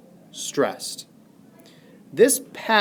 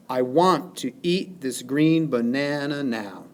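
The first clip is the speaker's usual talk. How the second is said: i WANT to EAT this GREEN ba-NA-na NOW, evenly measured; iambic stress. Shown as a demonstration. Teacher demonstrating the pattern of stresses, "I want to eat this green banana now" in alternating iambs. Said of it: "The pattern of stresses falls specifically unstressed, stressed".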